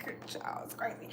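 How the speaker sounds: conspiratorial whisper. Real, not acted. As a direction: lean in and whisper the gossip. Gossip whisper aside.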